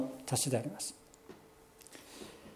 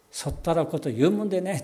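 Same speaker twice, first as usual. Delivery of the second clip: a light, playful Tohoku-style dialect; country dialect; 2 semitones higher, faster than usual. Retold or imitated. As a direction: rebuke Jesus in a mild Tohoku country accent. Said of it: "何弁か分かりませんけど". (軽い東北弁風の口調で)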